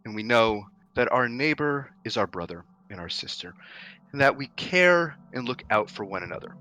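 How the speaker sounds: loud, measured oration with long pauses; booming leader's speech. Acted. Town leader addressing his comrades from the balcony, loud and solemn.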